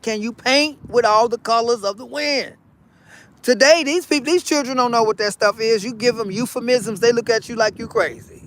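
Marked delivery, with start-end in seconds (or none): 0.0-2.6 quoting Pocahontas. Retold or imitated. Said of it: "Pocahontas said".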